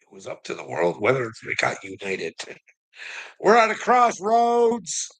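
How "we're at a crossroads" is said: loud, slow, high declaration; shouted proclamation. Real, not acted. Preaching to his chat, a slow loud shout. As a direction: boom it out like a prophet.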